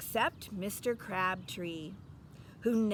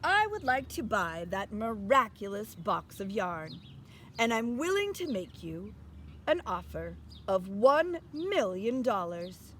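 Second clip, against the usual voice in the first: lightly voiced grand nobleman, louder; pompous archduke; 4 dB louder than usual. Archduke bargaining for the yarn box, a hint pompous. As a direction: offer the money with lofty pride. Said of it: "said the archduke".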